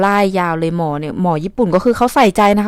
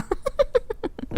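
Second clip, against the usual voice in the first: breathless giggle; 12 dB quieter than usual. Real, not acted. Laughs at calling herself out.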